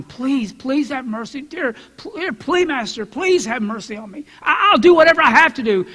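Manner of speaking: high, desperate begging; pleading slave. Acted. Slave begging master for mercy, pleading. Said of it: "starts crying".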